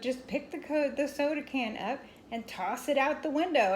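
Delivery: mock exasperation; exasperated mom. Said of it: "my mom was so exasperated with me".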